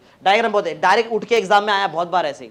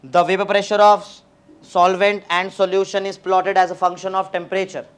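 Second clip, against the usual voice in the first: slow dictation; much slower than usual. Shown as a demonstration. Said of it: "fast fast बोलूंगा जल्दी".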